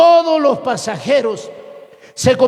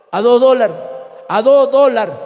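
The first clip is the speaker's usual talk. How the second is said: coastal S-dropping. Shown as a demonstration. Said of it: "No dice".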